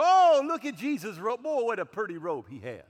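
loud hammed-up admiration of a robe; mock delighted gushing. Preacher mocks crowds admiring Jesus' robe, loud mock gush. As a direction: gush over the robe like a starstruck fan. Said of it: "They didn't go".

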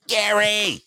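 high drawn-out call of a name; mock holler. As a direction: call out for someone, voice dropping at the end. Calling out the name, bit.

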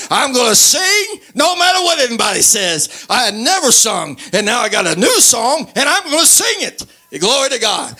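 rising, jubilant declaration; fervent preaching. Real, not acted. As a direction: preach it defiantly, climbing high by the end. Preacher declares defiant joy.

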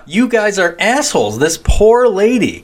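high, loud exaggerated pity; pitying outburst. Viewer reacting to the robbers, high mock pity. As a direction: cry it out high like an outraged fan. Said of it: "I was like".

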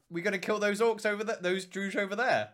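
high, bright eager question; eager call to fight. Retold or imitated. Urging teammates to charge the Druge, high and eager. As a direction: urge them on, keen to charge.

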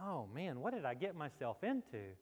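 low, softly voiced inner thought; quiet regret. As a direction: think it aloud softly, with sinking dismay. Acts out regret in dream.

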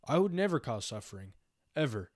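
flat, even monotone delivery. Retold or imitated. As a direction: say it in one flat tone. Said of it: "In, like, a monotone voice and everything?".

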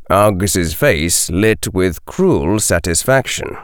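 ordinary delivery

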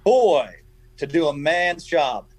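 put-on high, slow Italian-accented taunt, easing down at the end; John Benetti's Italian accent. Poker player needling the man he beat, heavy Italian accent. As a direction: stretch it out like a mock Italian wise man. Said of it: "Benetti had that deep Italian accent".

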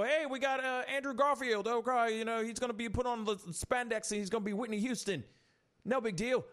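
high, loud mock Australian voice; hammed-up Australian bloke, cheerful; Australian accent. Pretend studio boss pitching a bad remake about a singer, in Australian accent. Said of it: "I don't know why I went into Australian".

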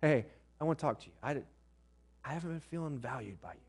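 calm, measured opening to a hard talk; gentle approach. Acted. Preacher models raising hurt feelings with a spouse, gentle and calm. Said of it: "it's to be".

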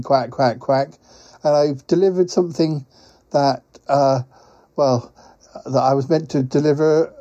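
flustered, stammering quacky character voice; hesitant quacking creature. Acted. Quacking courier admits a bellyache to Paul, hesitant creature voice. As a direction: play an apologetic, faltering quacking creature.

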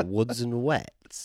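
"Woods and wets" dragged out slowly in mock scorn; mocking repeat. Mocking the friend's pun name, slow and scornful. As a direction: sneer at the bad pun, slowly.

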